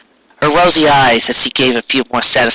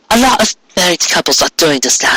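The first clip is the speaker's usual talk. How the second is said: light wife voice; 4 semitones higher than usual. Acted.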